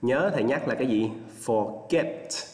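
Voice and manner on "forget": forget, slowly lifted on the second syllable; stress on GET. Shown as a demonstration. Teacher reminds the class, forget stressed on GET. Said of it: "Lên giọng ở âm get nha".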